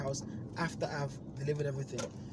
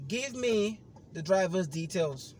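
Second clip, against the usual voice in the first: firm demand; 4 semitones higher, 4 dB louder, slower than usual. Retold or imitated. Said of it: "I said".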